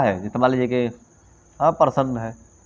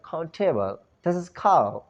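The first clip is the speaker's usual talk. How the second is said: mock English accent; 3 semitones higher, 5 dB quieter, slower than usual. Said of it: "अब अंग्रेज थोड़े बनना है".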